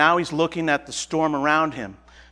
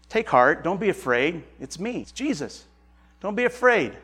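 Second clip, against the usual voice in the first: softer, hushed and reassuring; Jesus calming his terrified disciples, soft and steady; calm reassurance; 4 dB quieter than usual. Acted. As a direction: soothe frightened men in the storm gently. Jesus calms the frightened disciples.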